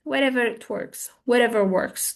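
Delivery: mildly indifferent brush-off; uninterested. Shown as a demonstration. Asked pizza or sushi, uninterested. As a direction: let them choose, not caring. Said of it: "I'm not interested in both".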